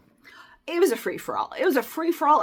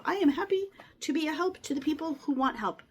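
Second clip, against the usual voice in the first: whisper; faster than usual. Real, not acted. Self-righteous aside, whispered.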